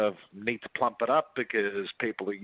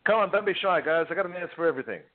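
playful call, pitched up, egging the audience on; 6 semitones higher, faster than usual. Real, not acted. Recruiter urges shy listeners on the call to ask questions, playful and high. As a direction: come on, loosen up the crowd with a grin.

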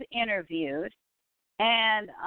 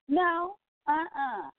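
scoffing no; 7 semitones higher, slower than usual. Real, not acted. Mocking idea of Beverly Hills.

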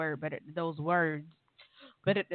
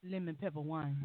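wolfing down food; 6 dB quieter than usual. Real, not acted. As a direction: mouth full of wings. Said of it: "don't judge me for eating".

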